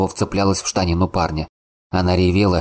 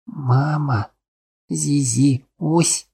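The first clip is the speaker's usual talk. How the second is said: put-on little girl murmuring; 9 semitones higher, much slower than usual. A narrator's reading. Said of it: "приговаривала она".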